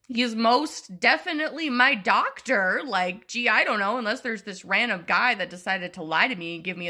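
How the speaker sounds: heated retort that was never said; imagined rant. Pretend. The rant she only wished she'd said to the nurse, heated. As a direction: tell the nurse off. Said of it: "I didn't say that".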